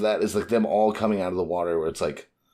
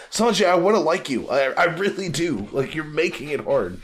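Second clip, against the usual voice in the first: pleading with Sanji; 5 semitones higher than usual. Pretend. Fan pleading with Sanji to stop ruining himself, exasperated plea. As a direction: beg the character to do better, slowing down. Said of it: "It's like".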